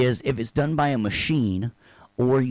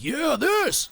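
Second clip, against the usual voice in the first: excited cheer. Retold or imitated. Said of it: "Andrew's like".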